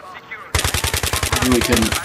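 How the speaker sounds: slow breathy whisper to himself. Real, not acted. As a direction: whisper it slowly, defeated. Repeats it under his breath.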